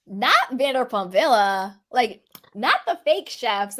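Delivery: "not" set apart at the head of each mocking phrase; mocking meme intonation, leading with "not"; mock-disbelief "not". Shown as a demonstration. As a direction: lean on "not" as a teasing lead-in. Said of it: "he was saying it not like when it's like".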